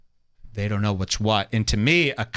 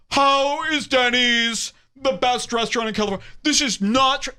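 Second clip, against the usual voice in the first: mock indignant comic; 9 semitones higher than usual. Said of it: "in this fucking thread going".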